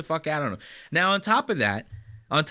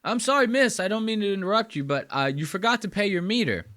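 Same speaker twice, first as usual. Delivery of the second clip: higher, overly polite nice-guy voice; mock nice guy; 4 semitones higher than usual. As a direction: play the sweet helpful stranger, pitched up. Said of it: "you go".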